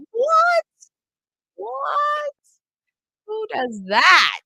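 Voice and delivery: squeaky high astonished what; amazed disbelief. Retold or imitated. Parent imitating astonishment that her son asked for math, very high. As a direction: gasp it in delighted shock. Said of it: "parents ... that are like".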